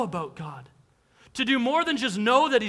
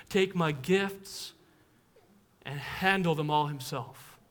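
slow, tender; slower than usual. Real, not acted. Reflective slow surrender list.

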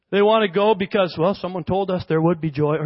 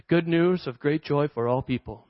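serious reading; 6 semitones lower than usual. Shown as a demonstration. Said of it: "Which is how we often read that".

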